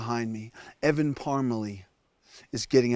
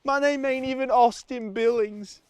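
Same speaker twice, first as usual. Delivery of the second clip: fake Southern accent. Stranded survival-show host confessing to camera, put-on Southern accent. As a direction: play the rugged Southern survivalist. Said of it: "I don't even have an accent".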